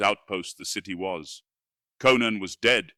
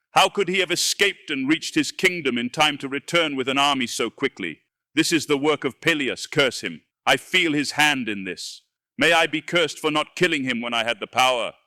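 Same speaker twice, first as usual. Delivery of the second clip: higher, louder frenzied ranting; frantic raving; 5 semitones higher, 4 dB louder than usual. Acted. Wizard curses Peleus, frantic furious raving. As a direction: rave on, half mad with rage. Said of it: "screamed Sota, clawing madly at his beard".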